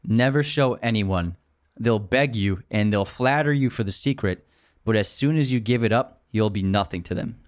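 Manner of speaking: slow it down so he can catch it. Shown as a demonstration. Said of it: "Say it again, slower".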